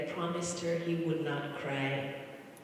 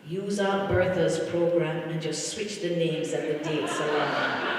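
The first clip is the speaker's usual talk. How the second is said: louder quote ending in a laugh; 6 dB louder than usual. Retold or imitated. Niece retelling uncle's hospital joke, laughing. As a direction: deliver the joke and break into a laugh. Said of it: "he said".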